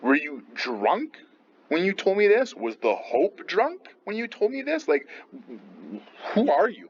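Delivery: mock Lady Macbeth taking a jab at her husband; snippy. Teacher voicing Lady Macbeth mocking Macbeth, snippy and high. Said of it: "she gets a little bit snippy".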